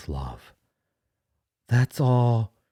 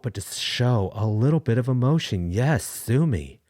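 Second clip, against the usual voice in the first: emotional; 5 semitones higher than usual. Real, not acted. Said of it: "I'm showing emotion".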